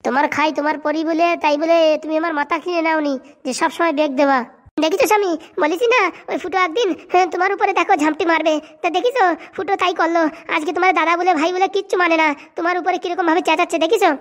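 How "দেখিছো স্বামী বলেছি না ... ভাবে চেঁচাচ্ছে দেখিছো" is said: whiny wife. Acted.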